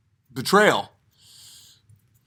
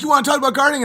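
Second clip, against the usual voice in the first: much higher, sing-song eager voice; mock enthusiasm; 11 semitones higher, much faster than usual. Comedian at the party egging guests on, high mock glee. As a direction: pitch it up like a thrilled host.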